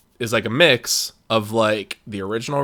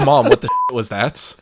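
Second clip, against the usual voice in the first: put-on kid's reaction; 3 dB louder than usual. Kid reacting to the movie.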